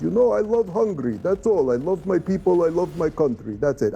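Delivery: a hint of an earnest foreign leader; Orban impression. Telling the host what Orban kept saying, lightly mimicked. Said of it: "That's, that's a dead-on impression of him".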